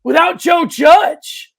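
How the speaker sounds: sarcastic, loud and slowed, building to the question; mock outrage. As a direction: ham up the disbelief at the idea of losing the coach. Mock outrage about the Giants.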